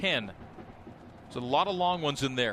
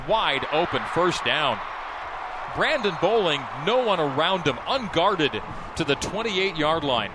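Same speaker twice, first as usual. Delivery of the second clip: excited call; 4 dB louder than usual. Real, not acted. Live call of a long completion.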